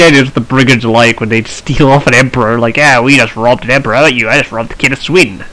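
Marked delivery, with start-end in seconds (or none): 2.8-5.4 lightly put-on bandit accent; mock brigand swapping boasts. Brigands swapping tales of royal robberies, light bandit voice. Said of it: "shouldn't try and do a bandit voice".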